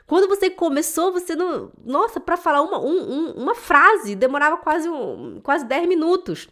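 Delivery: excited praise. Retold or imitated. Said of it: "eu falei".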